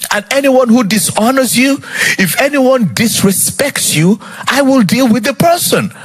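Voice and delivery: high, emphatic preached warning; God's warning. Acted. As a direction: proclaim it high, as a protective threat.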